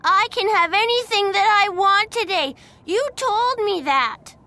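high, loud tantrum voice; angry little boy. A narrator's reading. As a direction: protest shrilly like a furious small child. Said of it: "he said angrily".

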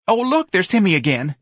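high, loud exclamation; excitable young man. Acted. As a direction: call attention to someone spotted. Young man spots Timmy.

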